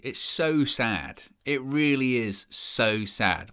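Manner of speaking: a slow, mock-doleful wrap-up; slow gloomy lament. Real, not acted. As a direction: drag it out, slow and mournful. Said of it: "Sound like that guy at the end of Come Dine With Me".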